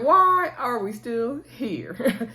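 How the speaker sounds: very slow, drawn-out complaint; mock exasperation. Viewer complaining about the dragging scene, exasperated. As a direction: stretch each word in weary disbelief. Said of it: "I'm irritated with the scene".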